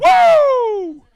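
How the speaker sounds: a high, loud celebratory woo; loud, high-pitched cheer; excited whoop. Real, not acted. Cheering back at co-host.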